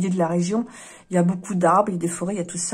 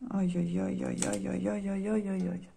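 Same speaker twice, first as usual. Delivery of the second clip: soft dismayed moaning; 9 dB quieter than usual. Real, not acted. Reader to viewers, dismayed by the cards, soft moaning.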